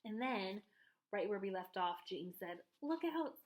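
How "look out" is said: cried out. A narrator's reading. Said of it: "cried James".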